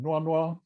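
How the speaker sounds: "noa noa" high and level on both syllables; Lisu high level tone. Shown as a demonstration. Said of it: "distal higher in the same way".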